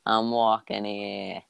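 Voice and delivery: easy New York accent, dropped h. Shown as a demonstration. Voice actor correcting co-host, New York accent. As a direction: answer as a laid-back New Yorker. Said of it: "I can also do New York".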